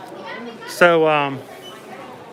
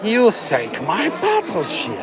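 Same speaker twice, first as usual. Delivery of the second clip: slow quoted line; 6 semitones higher, much slower than usual. Acted. Quoting game line slowly.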